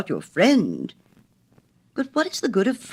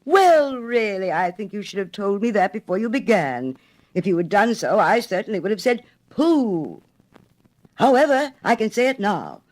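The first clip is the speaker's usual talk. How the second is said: indignant rant; 6 semitones higher, 3 dB louder than usual. A narrator's reading. Water rat indignant.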